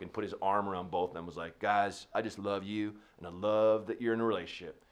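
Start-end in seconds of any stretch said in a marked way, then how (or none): 1.6-4.8 put-on drunk guy. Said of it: "was just drunk".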